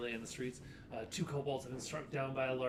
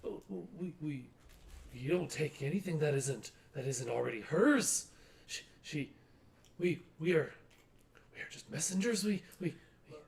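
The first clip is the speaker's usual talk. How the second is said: small squeaky timid voice; 3 semitones higher than usual. Acted. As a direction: squeak it out nervously, stammering. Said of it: "in a small, squeaky voice, very timid".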